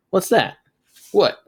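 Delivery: sudden high alarmed questions; startled alarm. Acted. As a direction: jump at a noise. Something moves behind the fridge.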